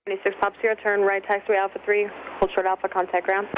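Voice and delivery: tinny radio voice in headset; over a pilot headset. Real, not acted. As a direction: ATC call heard through headset. Tower call over headset.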